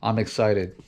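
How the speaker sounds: flat deadpan monotone; monotone voice, falling flat at the end. Real, not acted. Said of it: "my monotone voice".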